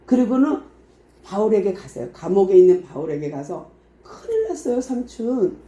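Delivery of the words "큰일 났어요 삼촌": put-on high, hushed urgent boy's voice; breathless urgent warning; urgent nephew. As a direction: whisper the alarm like a frightened nephew. Nephew urgently warns uncle Paul.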